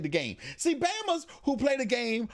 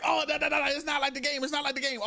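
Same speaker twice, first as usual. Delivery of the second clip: higher, dismissive imitation of griping viewers; mock complaining; 6 semitones higher, faster than usual. Mocking people who compare it to the game, complaining. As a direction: rattle off the gripe in mockery.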